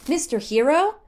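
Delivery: put-on high, loud, childish wonder; delighted gasp. Hestu recognizing Link, high delighted cry. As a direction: gasp it like a thrilled giant kid. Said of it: "he cried".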